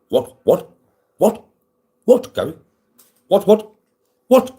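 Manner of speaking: repeated cries climbing to a high, loud squeal; climbing silly squawk. Pretend.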